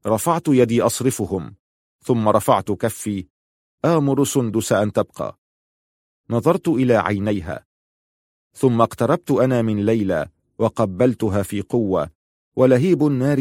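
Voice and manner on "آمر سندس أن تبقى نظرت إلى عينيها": ordinary delivery, nothing marked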